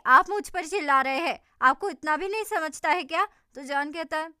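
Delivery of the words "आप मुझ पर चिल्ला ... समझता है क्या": angry. Acted. Acted quarrel on the beach.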